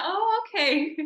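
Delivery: light, amused mock "ah, I see"; retold relief. Imitating mom seeing what the actor really looks like, mildly relieved. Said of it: "she was less scared".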